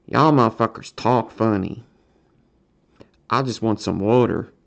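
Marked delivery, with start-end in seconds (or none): 3.3-4.5 Philadelphia accent on "water", falling at the end. Shown as a demonstration. Streamer showing viewers his accent, Philadelphia accent. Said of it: "Philadelphia accent".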